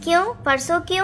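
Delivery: quick puzzled cat voice; quick curious cat. Acted. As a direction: ask fast, puzzled. Second cat asks quickly.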